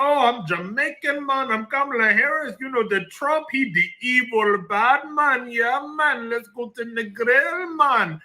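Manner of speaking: mock Jamaican accent. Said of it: "the Jamaican Kamala".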